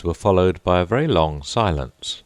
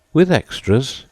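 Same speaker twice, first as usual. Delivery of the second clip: a little anxiously; 9 semitones higher, 4 dB louder than usual. A narrator's reading. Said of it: "a little anxiously".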